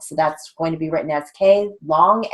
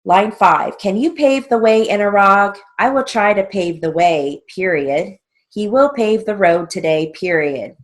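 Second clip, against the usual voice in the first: raised, measured drill-sentence dictation; 3 semitones higher, 4 dB louder than usual. Shown as a demonstration. Teacher reading shorthand drill lines to students, dictation voice. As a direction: read out each sentence and its punctuation.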